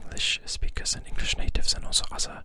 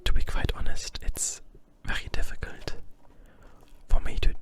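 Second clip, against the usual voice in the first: whispered German accent, louder than the usual whisper; 4 dB louder than usual. Shown as a demonstration. ASMR host experimenting for viewers, whispered German accent. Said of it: "talk German accent".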